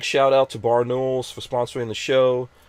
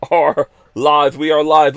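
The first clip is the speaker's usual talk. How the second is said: hyped going-live shout; 7 dB louder, slower than usual. Real, not acted. Going live, announcing the show.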